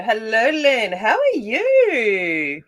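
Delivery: loud, high, stretched-out welcome; excited greeting. Real, not acted. Streamer welcoming a returning viewer, loud drawn-out greeting. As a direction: draw out "you" in a big hello.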